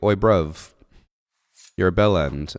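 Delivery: cheeky London lad, loud and punchy; British accent. Retold or imitated. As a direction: bark it like a mouthy British teen. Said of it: "Josh would be like".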